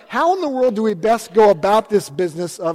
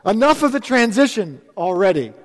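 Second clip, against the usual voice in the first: exasperated plea; 4 semitones higher than usual. Retold or imitated. Congregation tired of change pleads with God, mock exasperated. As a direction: beg the Lord to slow down, half in jest. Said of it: "some of us at this point are like".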